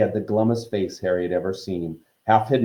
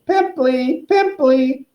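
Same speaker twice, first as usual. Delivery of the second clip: high, piercing taunt; mischievous poltergeist shouting; jeering yell; 5 dB louder, much slower than usual. A narrator's reading. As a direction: chant the insult as a loud tease.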